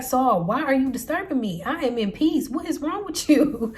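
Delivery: half-acted annoyance at being woken from peace; irritated. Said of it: "he's completely irritated".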